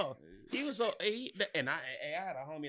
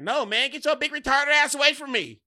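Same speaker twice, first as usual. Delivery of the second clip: higher, louder retold brush-off; mock shout; 12 semitones higher, 11 dB louder than usual. Telling Michael to get away, retold shout. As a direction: shove him off with a yell. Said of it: "And I was just like".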